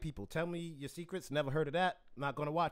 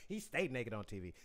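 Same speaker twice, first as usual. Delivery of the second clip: lightly voiced younger Black woman accent; a hint of his mom's project accent, quoting his wife; mock Black girl accent; 3 semitones lower than usual. Host imitating his wife chiming in, light Black woman accent. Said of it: "That's my accent for all black girls".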